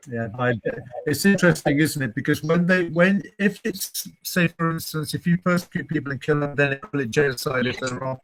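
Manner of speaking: muffled underwater audio; bad connection, sounds underwater. Real, not acted. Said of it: "You would sound like you're underwater".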